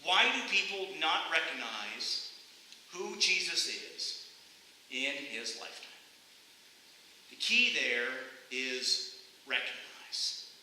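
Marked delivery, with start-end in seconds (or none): 0.0-5.9 deliberate repeat. Shown as a demonstration. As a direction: repeat it carefully, pausing before "who" and "in". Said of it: "Let me repeat that".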